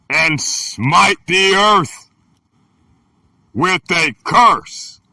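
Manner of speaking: slow, solemn reading of the verses; slow, weighty scripture read. Acted. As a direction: read it like holy writ, unhurried. Reads scripture aloud.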